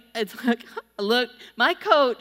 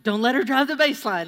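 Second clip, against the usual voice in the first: panicked thought; 4 semitones higher, 5 dB louder, faster than usual. Retold or imitated. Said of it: "I'm like".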